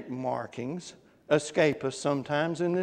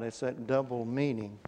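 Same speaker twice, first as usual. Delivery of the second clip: normal talking voice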